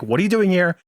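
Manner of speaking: high-pitched retold protest; flustered retort. Guy to the girl acting different in class, flustered protest.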